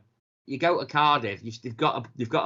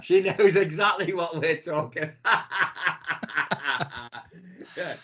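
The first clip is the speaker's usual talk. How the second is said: laughing. Real, not acted. Podcaster tells co-host his wife is at the door, laughing. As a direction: talk through real laughter. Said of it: "I'm laughing because my wife".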